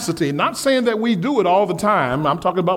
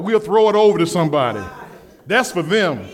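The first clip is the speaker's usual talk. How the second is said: mock dismissive; 3 semitones lower, faster than usual. Shown as a demonstration. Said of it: "that's for somebody else".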